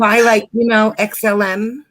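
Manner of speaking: mock California Valley-speak; lightly put-on Californian accent; California style. Shown as a demonstration. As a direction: lean into California filler-word style. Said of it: "say it in California style".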